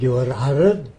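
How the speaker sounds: a hint of an Arab immigrant's accent; imitated broken English. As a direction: lightly imitate an Arab man's halting English. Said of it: "That's all he can say".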